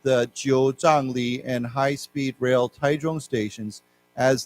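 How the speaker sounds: slow, careful news reading. Acted. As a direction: read the headline story slowly and clearly. Reads news text aloud.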